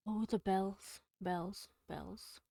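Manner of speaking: measured, dramatic recitation of a poem; dramatic poem reading. Acted. Streamer reading a Poe poem to chat, dramatic recitation. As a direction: read the verse to your listeners, letting the bells ring. Streamer reads Poe's The Bells.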